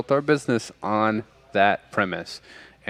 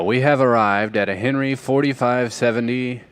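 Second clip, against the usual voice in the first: auctioneer; 3 semitones higher, 3 dB louder than usual. Real, not acted. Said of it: "Why did I say forty-five like an auctioneer?".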